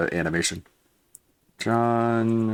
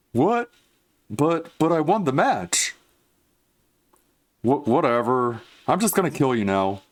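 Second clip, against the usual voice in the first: pitched-up squeezed nasal voice, now nailed; nasal John Rambo impression; 4 semitones higher than usual. Shown as a demonstration. Recording a line for an animation, the nailed nasal John Rambo. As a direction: talk as if the brain sits inside the nose. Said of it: "press my face farther and farther forward".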